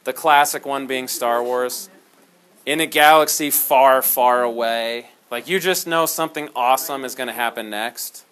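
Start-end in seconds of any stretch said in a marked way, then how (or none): 2.6-5.1 movie trailer voice. Retold or imitated. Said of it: "sounds like the, a movie trailer".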